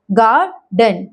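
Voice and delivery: गार्डन split as gaar-dən; syllable by syllable. Shown as a demonstration. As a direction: sound out गार्डन, schwa in the second syllable. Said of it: "शवा sound parents हमारे पांचों". (गार्डन को तोड़कर, शवा के साथ)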